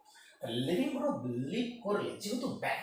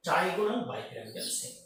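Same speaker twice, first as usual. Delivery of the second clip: slow dictation; 3 dB louder, much slower than usual. Shown as a demonstration.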